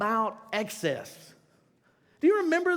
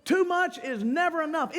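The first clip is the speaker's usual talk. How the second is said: imitating a rock singer; 7 semitones higher than usual. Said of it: "But he was like".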